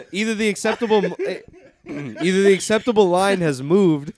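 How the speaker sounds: laughing through hiccups; hiccuping. Real, not acted. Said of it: "We got a little hiccuping baby here".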